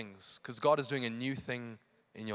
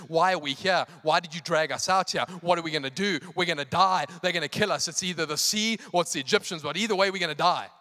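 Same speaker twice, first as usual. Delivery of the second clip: mock complaining, pushed louder; fretful Israelites griping at their leader; 2 semitones higher, 6 dB louder than usual. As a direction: complain in a rush of protests. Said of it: "they start complaining to Moses".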